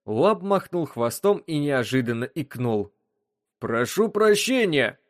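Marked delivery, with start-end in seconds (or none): none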